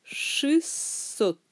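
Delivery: Шестьсот said shys-SOT; E after ш as Y. Shown as a demonstration. Teacher showing the vowel rule, Шестьсот as shys-SOT. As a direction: give Шестьсот a hard y after ш, long hiss in the middle. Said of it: "après ш devient U".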